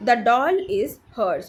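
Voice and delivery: very slow, separated words; deliberate teacher's example reading; repeat-after-me model. Shown as a demonstration. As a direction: model it slowly for learners to copy. Teacher models sentence for repetition.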